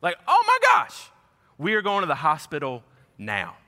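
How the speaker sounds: retold scream. Husband reenacting his wife's scream at their daughter's face. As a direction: shriek it like a frightened mother. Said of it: "she screamed out loud".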